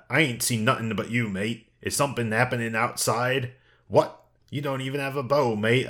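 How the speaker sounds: lightly voiced Cockney shopkeeper, a sharp high "What?"; casual imitation of a Cockney shooting gallery man; Cockney accent. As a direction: read the game lines in a mild Cockney twang. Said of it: "he's definitely Cockney".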